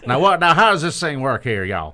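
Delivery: lightly voiced folksy country judge; J R impression. Imagined divorce court judge asking, folksy impression. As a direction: puzzle over it with a hint of Oklahoma. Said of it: "us doing J R impressions".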